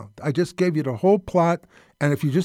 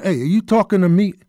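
Taxi Driver impression; 4 semitones higher, 4 dB louder than usual. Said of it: "Are you saying".

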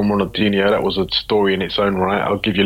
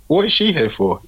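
baffled question; 7 semitones higher than usual. Retold or imitated. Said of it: "I said".

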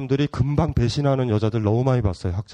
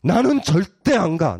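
defiant refusal; slower than usual. Retold or imitated. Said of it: "강한 거 같죠?".

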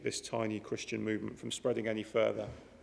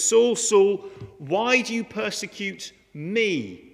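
voice of Jesus calling; 7 semitones higher, 7 dB louder, slower than usual. Retold or imitated. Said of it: "He says".

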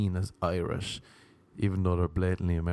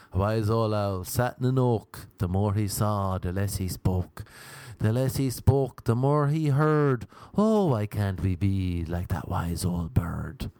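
poem recital. Shown as a demonstration. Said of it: "have we said that poem".

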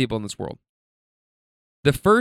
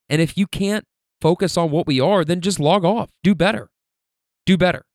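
fed-up scolding; 5 semitones higher than usual. Real, not acted. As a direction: snap the words at the offenders. Lecturing people posting All Lives Matter.

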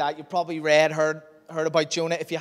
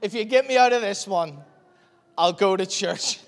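pleading prayer; 4 semitones higher, 5 dB louder than usual. Retold or imitated. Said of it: "I was like".

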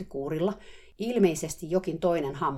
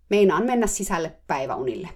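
curt; 6 dB louder than usual. Retold or imitated. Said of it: "vastasi napakasti".

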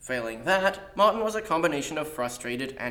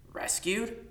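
high-pitched incredulous echo; disbelieving one-word question; 9 semitones higher, 4 dB quieter than usual. A narrator's reading. Kidnapped boy queries claimed rescue.

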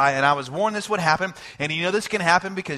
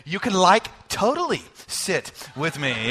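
light Southern California valley accent, "like" lifted; a hint of Southern California valley drawl on "totally". Shown as a demonstration. Pastor teasing his wife's Southern California accent. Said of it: "say it like you're from Southern California".

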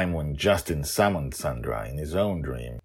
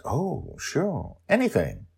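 eager hostess Sandra; 11 semitones higher, slower than usual. Acted. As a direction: fuss over guests, voice up high. Sandra agrees.

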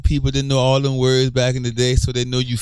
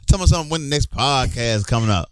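quick slangy quote; 5 semitones higher, faster than usual. Retold or imitated. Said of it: "Or like".

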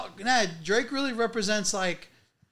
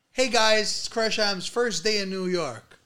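upbeat vlogger hello, pitched up; vlog intro voice; 3 semitones higher, slower than usual. Pretend. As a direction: greet the camera like a cheesy host. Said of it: "maybe you guys could do".

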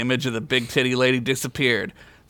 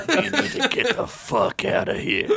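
panicked escape; 10 semitones higher than usual. Acted. Character blurts in panic.

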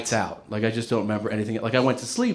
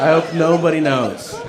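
laughing repeat; 4 semitones higher, 4 dB louder than usual. Retold or imitated. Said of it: "That's the only thing I'm thinking".

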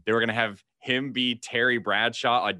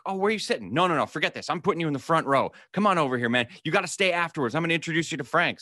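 eager welcome; 5 semitones higher, faster than usual. Retold or imitated. Manager excitedly upgrades his seat.

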